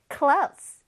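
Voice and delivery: "clothes" like "close", firm and without th; strong simplified ending. Shown as a demonstration. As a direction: model "clothes" with a firm final s, th dropped. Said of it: "조금 강하게 끝에 clothes 하면 돼".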